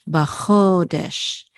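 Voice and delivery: Bachodesh slowly as "ba-KHO-desh"; syllables blended slowly. Shown as a demonstration. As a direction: draw out Bachodesh, throaty "kh" in the middle. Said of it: "the Shin closes it out".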